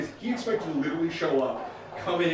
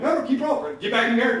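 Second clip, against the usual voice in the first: urgent; 8 semitones higher, 6 dB louder than usual. Retold or imitated. Urging player to keep going.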